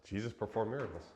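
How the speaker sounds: fast amused echo of his own line; laughing repeat. Real, not acted. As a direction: toss it off again, chuckling at himself.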